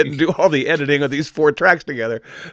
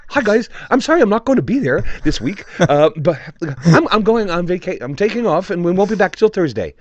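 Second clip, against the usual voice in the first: imitating Joe's accent; 3 semitones higher than usual. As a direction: read his note in a playful put-on British accent. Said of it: "in his, you know, amazing accent that he has".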